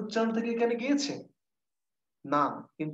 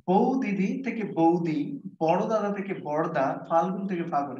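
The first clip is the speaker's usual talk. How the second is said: slow explaining. Shown as a demonstration. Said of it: "খেয়াল করে একটু".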